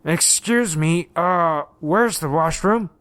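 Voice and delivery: slow, panicky mock-British plea; hammed-up British accent, stretched out slowly. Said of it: "still said it in his mock British accent".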